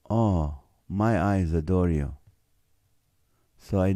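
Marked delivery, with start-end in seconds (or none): 0.1-2.1 sexy voice. Acted. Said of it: "gets his sexy voice going".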